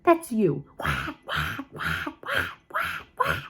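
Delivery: high squeaky mocking whack chant; singsong schoolyard mockery; mocking taunt. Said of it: "he mocked me where he did".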